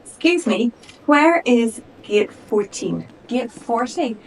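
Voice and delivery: excited traveller. Acted. Eleanor lost at the airport, high and eager. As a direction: play a flustered first-time flyer.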